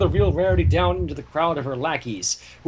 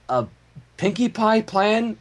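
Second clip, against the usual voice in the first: critical; 3 semitones higher, slower than usual. Acted. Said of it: "Shining Armor asked critically".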